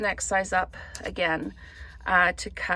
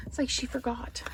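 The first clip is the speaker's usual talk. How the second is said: mock whisper; 5 semitones higher, 4 dB quieter than usual. Teasing aside about herself.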